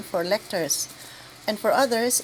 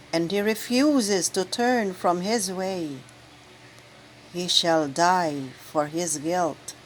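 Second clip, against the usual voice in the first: solemn proclamation. Acted. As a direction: proclaim it to the assembly with gravity. Proclaims the first reading.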